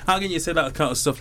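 mock-appalled protest; mock disgust. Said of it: "Jack is looking away like".

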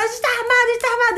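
high, rushed mock shout without real volume; mock yelling. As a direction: imitate robbers frantically yelling, lightly. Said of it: "eles ficavam gritando".

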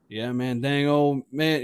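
a hint of cartoon mumbling drawl; lightly imitated slow country talker; Boomhauer. Friend explaining next day, light drawling imitation. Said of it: "on some Boomhauer shit".

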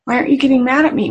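the son repeating it fast to his mother; rushed emotional repeat. Retold or imitated. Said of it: "actually emotionally asked her".

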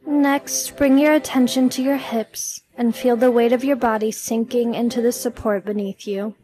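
measured meditation delivery with long pauses; guided meditation. Acted. Podcast host leading listeners through releasing stress, guided meditation. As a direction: guide the listener gently, leaving room to breathe.

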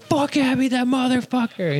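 high mock rant; a hammed-up high grumble at Abby; imitating an angry friend. Friend storming outside, cursing Abby in a mock rant.

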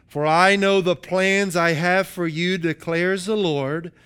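measured, proclaiming verse reading; emphatic scripture reading. Acted. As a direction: declare it as God's own promise. Reads God's words from scripture.

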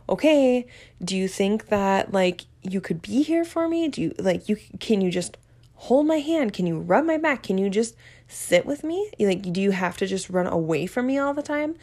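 a clingy plea she is ashamed of; needy pleading. Retold or imitated. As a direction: beg him to stay, half complaining. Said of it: "I sounded like that".

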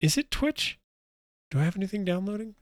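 glitchy jumping pitch. Real, not acted. Connection glitching, voice distorting.

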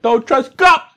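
high yelled catchphrase, hammed up; mock shout. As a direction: belt it out like a joke slogan.

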